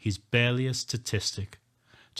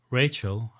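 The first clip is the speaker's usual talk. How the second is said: louder, defiant. Acted. Narrator repeats Rachel's name, louder and defiant. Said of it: "I repeat louder and more defiant".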